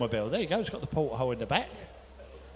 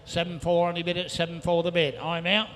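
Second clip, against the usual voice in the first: rhythmic rapid-fire bid calling; auctioneer calling; 2 semitones higher than usual. Real, not acted. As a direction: rattle off the bids like an auctioneer. Auctioneer taking bids.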